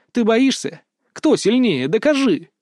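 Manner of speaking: high, nagging challenges; remembered taunts. A narrator's reading. Berta's taunts prick at Kris's memory, high and insistent. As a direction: echo the dares high, short of a full cry.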